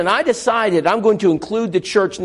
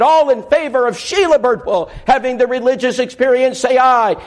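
raised preacher's call for a vote; 6 semitones higher than usual. Retold or imitated. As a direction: boom it out to the congregation. Pastor calling the vote.

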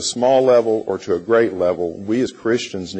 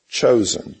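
chosen set apart after a pause, slightly raised; emphasis on chosen; 2 semitones higher than usual. Real, not acted. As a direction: lean on the word chosen to underline the choice. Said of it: "I want to emphasize that word choice".

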